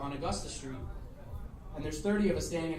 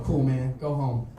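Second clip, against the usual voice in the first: low, loud retold send-off; curt dismissal; 5 semitones lower, 6 dB louder, slower than usual. Dave lets the skinhead go, low dismissal. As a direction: act out dismissing a beaten man.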